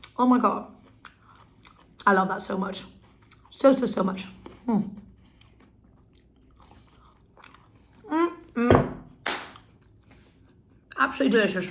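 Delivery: talking with mouth full, eating while talking. Tasting crispy courgettes and praising them, talking with mouth full. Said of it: "sorry to chat with my mouth full".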